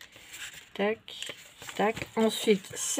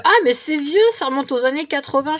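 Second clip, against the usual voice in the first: lightly mimicked dismissive daughter, higher at first; mock youngster's exclamation, lifted in pitch; imitating eldest daughter; 5 semitones higher, 4 dB louder, faster than usual. Mother quoting her daughter calling vintage things old, mildly mocking. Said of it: "elle me fait".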